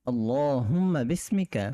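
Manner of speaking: slow, deliberate Arabic recitation. Shown as a demonstration. Teacher repeats the sleep dua slowly, deliberate. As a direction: draw out each word for students to copy. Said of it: "আবার বলছি".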